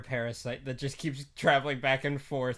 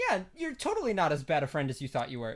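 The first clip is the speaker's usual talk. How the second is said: laughing; faster than usual. Retold or imitated.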